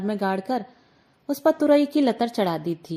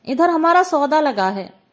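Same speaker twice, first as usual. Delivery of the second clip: higher and louder, stress on हमारा; raised protest; 5 semitones higher, 6 dB louder than usual. Acted. Gulki insisting to the aunt, raised and higher. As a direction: insist it's her goods.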